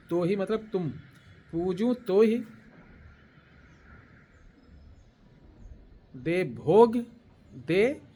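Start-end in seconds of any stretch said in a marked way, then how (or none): 1.5-8.0 drawn-out words with pauses between; slow dictation. Shown as a demonstration. Teacher dictating the mantra to listeners, slow dictation. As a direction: spell it out phrase by phrase for writing. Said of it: "धीरे धीरे बोल रहा हूँ".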